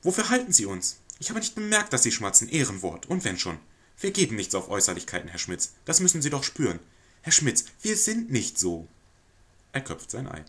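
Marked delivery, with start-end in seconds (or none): 0.0-8.9 fluster and over-apologize to the lodger; nervous society lady placating a guest; flustered lady of the house. Acted.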